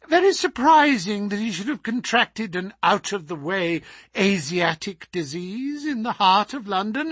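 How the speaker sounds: high, mocking gloating voice; sneering villain. A narrator's reading. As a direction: taunt him from above, cruel. Villain Smith taunting sick Holmes.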